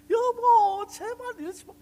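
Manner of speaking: a lightly voiced wife begging him to stop; pleading wife. Wife begging during fight. (겁에 질려 애원하는 아내 흉내)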